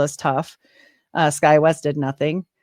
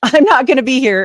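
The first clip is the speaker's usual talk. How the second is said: laughing; 6 semitones higher, 7 dB louder than usual. Retold or imitated. Laughing through a desperate prayer.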